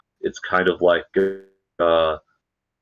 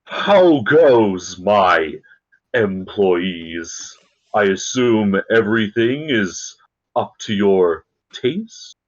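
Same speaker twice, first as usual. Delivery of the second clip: grand, slightly raised lord's voice; lordly villain; slower than usual. Acted. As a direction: speak down to his employees. GM voices Bellatrix to crew.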